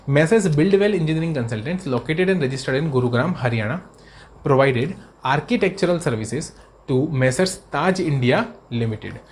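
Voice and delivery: reading the question out slowly and deliberately. Acted. Teacher reads the MCQ to students, slow and measured. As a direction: read the case facts slowly for note-taking.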